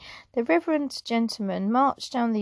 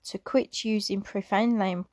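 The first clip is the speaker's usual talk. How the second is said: emotional break. Real, not acted. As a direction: voice catches and stops on profane. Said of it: "Sorry, getting a little bit emotional".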